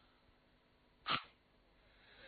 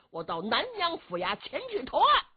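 higher, cocky vow to turn himself in; brash son's promise; 10 semitones higher than usual. Acted. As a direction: toss off the promise with swagger. Zhu Can promises to surrender.

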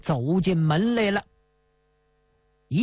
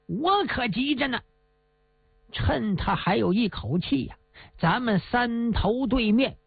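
cold sneer; 2 semitones higher than usual. Acted. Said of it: "马狗子冷笑一声".

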